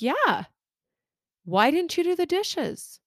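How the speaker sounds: mock annoyed wife. Wife asking husband why he skipped the dishes, mock annoyed. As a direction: replay the irritated demand, half-joking.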